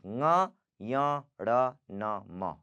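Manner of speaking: ng, yang, ण, न, म through nose and mouth; nasal consonants. Shown as a demonstration. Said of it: "you have to pronounce it from".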